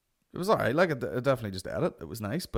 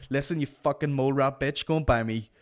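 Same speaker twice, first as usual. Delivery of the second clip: loud mock-furious demand; hammed-up rage over pastries; angry about buns; 3 semitones higher, 5 dB louder than usual. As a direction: aggressively order buns, breaking up with laughter. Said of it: "just getting so angry about buns".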